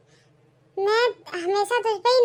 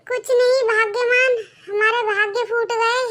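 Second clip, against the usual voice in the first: high, crying lament; tearful lament; 4 semitones higher than usual. Acted. Old man tells wife their luck is ruined, tearful lament. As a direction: wail over lost fortune.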